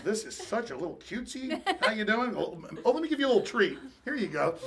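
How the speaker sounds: soft mock baby talk; hushed, doting pet talk, put on; pet cooing. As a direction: coo quietly to a tiny dog. Acts cooing over the small dog.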